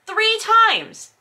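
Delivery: incredulous host stressing three times; exasperated emphasis. Real, not acted. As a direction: slam the point home in disbelief. Exasperated counting of apologies.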